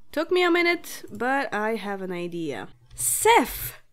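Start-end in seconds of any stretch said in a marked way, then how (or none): 2.9-3.8 excited. Real, not acted. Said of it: "Because it's kind of like Seth".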